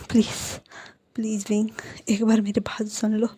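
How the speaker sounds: soft, breathless whispered plea; pleading whisper. Retold or imitated. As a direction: beg him under your breath. Wangji begging the angry partner. (धीमी फुसफुसाती विनती)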